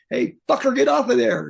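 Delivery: loud, high warning shout; yelling. Retold or imitated. Roadie to a singer running across a pyro stage, yelling. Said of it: "me yelling".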